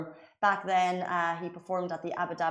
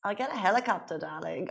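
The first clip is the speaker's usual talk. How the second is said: lightly put-on German heiress accent, haughty; a weak attempt at a posh German heiress accent; bad Anna Delvey accent. Shown as a demonstration. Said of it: "Oh, that was so bad".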